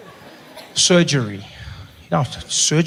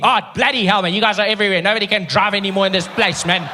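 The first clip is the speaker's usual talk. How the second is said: huffing, ranting white South African; angry ranting driver; 3 semitones higher than usual. Retold or imitated.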